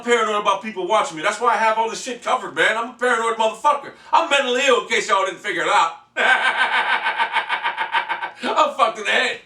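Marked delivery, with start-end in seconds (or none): 6.1-8.4 long machine-gun cackle; drawn-out rattling "ha-ha-ha" laugh; staccato laugh. Real, not acted. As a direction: laugh in a long run of rapid, even bursts. After admitting he is mentally ill.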